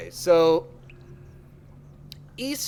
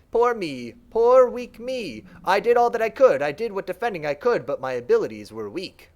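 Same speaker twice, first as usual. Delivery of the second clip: lightly voiced creature, self-pitying; a lightly voiced mind pleads its weakness to the Shaper; pitiful servant mind; 3 semitones higher, 3 dB louder than usual. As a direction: whine a little about your failures. Servant mind tells of invaders.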